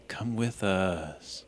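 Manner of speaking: soft unvoiced whisper. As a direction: whisper it gently to calm. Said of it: "and whisper".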